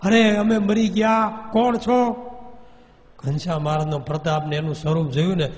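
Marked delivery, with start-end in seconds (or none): 0.0-2.1 higher, slow, strange wailing ghost voice; burning ghosts wailing. A narrator's reading. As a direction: cry out in agony as the light burns. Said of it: "ચીસો ચીસ, રાડો પાડવા માંડ્યા".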